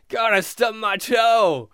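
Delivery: slow, mild mock whine; whining. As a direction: complain to God with drawn-out words. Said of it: "people whining".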